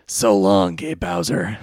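low, deep anime rival voice; Kaiba. Acted. Host trying the Kaiba voice, low and deep. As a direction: drop it low for the character impression. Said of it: "let me, let me try here".

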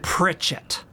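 "Pritchett" whispered; whispered repeat. Real, not acted. Confirming his brother's name to the officer, whispered.

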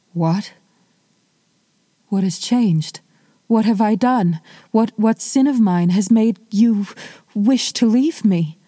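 lightly voiced wife, upset and pleading; distressed wife. Wife begging her husband not to leave, mildly distressed. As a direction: ask what she did wrong, rising in alarm.

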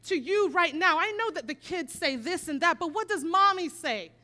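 insistent mom. Retold or imitated. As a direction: drive the truth home to him. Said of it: "And I'm like, Leo".

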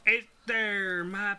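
halting, badly faked Swedish accent; slow, broken attempt at a Swedish accent; John Wayne's terrible accent. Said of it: "the terrible accent he was doing".

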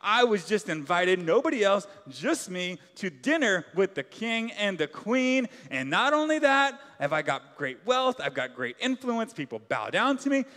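a mock-jubilant, sing-song boast from a proud man; gleeful Haman. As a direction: play Haman full of himself, a touch of a crowing strut. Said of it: "He's singing along like".

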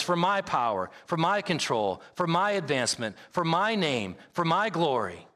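lightly acted, self-serving false shepherd; a hint of a possessive leader laying claim. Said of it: "a false shepherd says".

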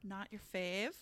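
whispered, playful question; teasing whisper. Real, not acted. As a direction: needle her softly.

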